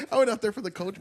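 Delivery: quick amused retake; laughing repeat. Shown as a demonstration. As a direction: rattle it off mocking your own excuse. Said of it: "Like I always say".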